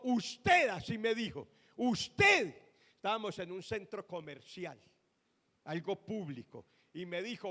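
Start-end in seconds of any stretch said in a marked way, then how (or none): 0.0-2.5 higher, louder sharp accusing call; imitating a hurt woman. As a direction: call out her blame. (imitando a una mujer herida, más alto y fuerte)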